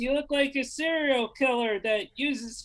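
mildly mock the girlfriend kicking him out; lightly voiced girlfriend. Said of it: "my girlfriend said".

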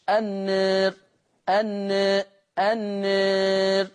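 النار with aa tilted towards e, light r; held, level النار, vowel between a and e; taqlil on النار. Shown as a demonstration. Teacher showing how Warsh reduces it, النار with aa near e. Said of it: "يبتدي يقللها ورش".

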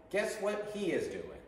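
high-pitched teaching prompt; repeat-after-me model. Shown as a demonstration. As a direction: lift it high for learners to echo. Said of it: "repeat after me".

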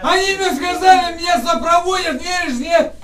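real heated complaint; angry protest. Real, not acted. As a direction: protest loudly to the officers. Detainee protests loudly to officers.

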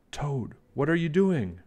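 a small, curious mouse asking. Acted. Mouse asks Toad a question.

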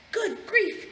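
shocked gasp, high and loud; aghast storybook wolf. A narrator's reading. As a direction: exclaim in alarm, pitch jumping up. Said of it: "gasped the wolf".

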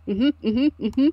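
quick rising mm-hmms; eager agreement. Acted. Sammy leaning in to hear the secret, eagerly agreeing. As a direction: nod along enthusiastically in sound. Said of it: "nodding very, like, enthusiastically".

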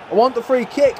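frustrated demand. Real, not acted. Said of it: "I'm pressing the buttons for a freaking free kick".

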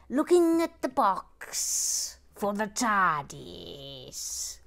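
slow theatrical pronouncement; mock grand. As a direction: declare neutrality like a diplomat. Mock-grand declaration of neutrality.

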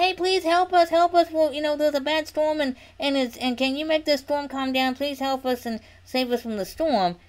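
high, urgent plea; acted-out plea; pleading for help. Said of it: "They didn't just run to Jesus and say".

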